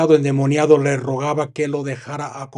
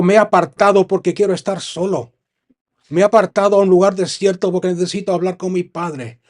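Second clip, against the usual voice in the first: raised, irritated voice, a touch louder; annoyed Jesus; 4 semitones higher, 4 dB louder than usual. Acted. Jesus annoyed at the crowd, mildly irritated. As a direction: push back, you want to be alone. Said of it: "y se enfadó con ellos".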